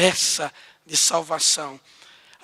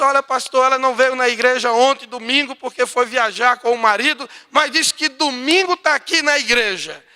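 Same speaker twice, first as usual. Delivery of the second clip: louder, happy rush of news; joyful report; 4 semitones higher, 6 dB louder than usual. Retold or imitated. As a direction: tell the pastor the good news gladly. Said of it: "a alegria dela disse". (alegria, mais alta e animada)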